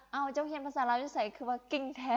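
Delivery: lightly acted surprised question. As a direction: imitate an impressed, puzzled listener. Voices surprised Vietnamese listeners.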